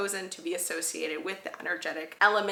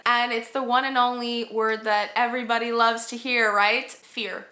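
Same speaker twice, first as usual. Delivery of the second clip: sarcastic; 3 dB louder than usual. Real, not acted. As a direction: tease it with light sarcasm. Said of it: "that was sarcasm".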